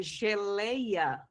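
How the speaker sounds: "geleia" drawn out on the middle syllable LEI; teacher slowly sounding out "geleia", weight on LEI; stressed syllable shown. Shown as a demonstration. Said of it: "a sílaba mais forte é o lei".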